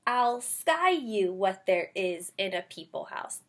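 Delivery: slow read-aloud with sky said in place of show; wrong word read. Shown as a demonstration. Teacher showing kids a reading that makes no sense. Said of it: "If I thought it was sky, I would say".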